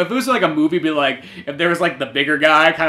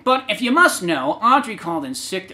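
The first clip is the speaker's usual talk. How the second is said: different voice; 4 semitones higher than usual. Acted. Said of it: "we've given a different voice".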